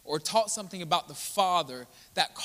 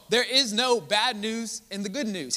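There is no bad news in the good news, pressed harder; louder, emphatic repeat; 3 semitones higher, 3 dB louder than usual. Shown as a demonstration. Preacher repeating the line to the church, louder. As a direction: punch it higher and stronger.

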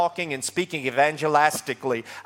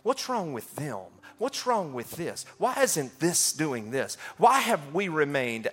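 much softer, hushed self-questioning; inner doubting; 6 dB quieter than usual. Retold or imitated. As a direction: ask it quietly, as if only to yourself. Voicing his own past doubts.

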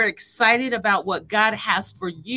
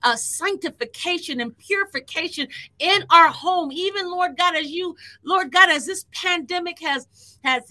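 fervent prayer; 3 semitones higher than usual. Acted. Prayer building to fervour.

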